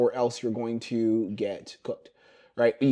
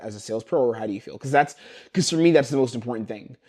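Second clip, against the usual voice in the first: genuine delivery. Shown as a demonstration. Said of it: "how genuine I deliver that".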